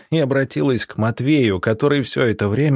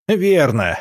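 supportive shout; 6 semitones higher, 4 dB louder than usual. A narrator's reading. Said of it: "поддержал решение Олега Викторовича Алексей".

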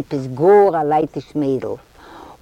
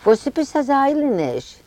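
higher, eager question; eager jump up; 8 semitones higher than usual. Acted. Isaac springing up from the bench, eager and high. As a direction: pitch it up with impatience. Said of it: "Springt auf Isaac vom Bänkel".

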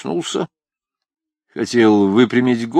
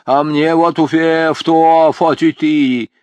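toothless mumble; 4 semitones higher, 5 dB louder than usual. A narrator's reading. Toothless old man lisps.

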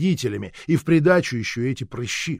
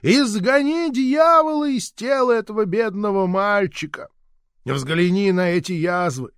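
high-pitched pleading exorcism prayer; fervent prayer; 6 semitones higher than usual. A narrator's reading. Grandmother begs God to cast out the devil, high and fervent. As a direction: preach it up at heaven, half-wailing. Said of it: "молилась моя бабушка".

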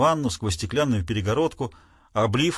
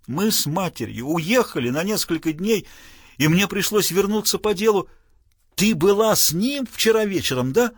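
agitated father; 5 semitones higher than usual. Acted. Father interrogates daughter.

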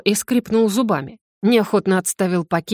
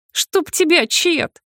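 pained exclamation; 8 semitones higher, much slower than usual. A narrator's reading. Nose hits Chad's chest, pain.

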